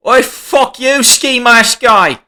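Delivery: high-pitched, drawn-out imitation of an insult; mock angry yell. Imitating McDowell insulting a rival on video, mock angry yell. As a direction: yell it up high like a caricatured brawler.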